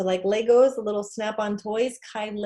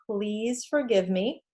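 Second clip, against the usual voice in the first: gentle plea; slower than usual. Shown as a demonstration. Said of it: "Number two".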